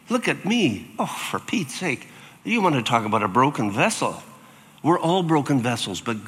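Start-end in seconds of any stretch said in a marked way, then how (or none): 0.1-4.2 higher, mock-exasperated sigh of God; a hint of a fed-up father. Preacher voicing God fed up with Moses, mock exasperated.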